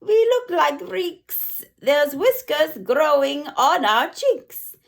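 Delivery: mild mock shout. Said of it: "Another shouts".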